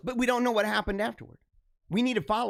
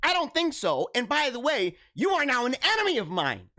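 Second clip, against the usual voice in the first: mock offended retort; 5 semitones higher than usual. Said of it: "And I'm like".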